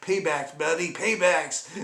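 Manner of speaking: slow, smug mock gloat; gloating dog. Dog gloating after soaking him, slow and smug. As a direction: savor the payback like a smug pet. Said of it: "She's like".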